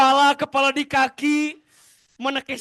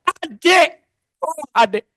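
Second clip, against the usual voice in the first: annoyed mother; slower than usual. Retold or imitated. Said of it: "Kadang Bunda kesel".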